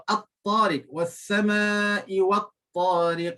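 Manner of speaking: At-tariq was-sama'i wat-tariq slow, ta heavy; tajwid recitation. Shown as a demonstration. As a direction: recite slowly with merged ta. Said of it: "nombor sebelas, ta". (bacaan perlahan dengan ta tebal)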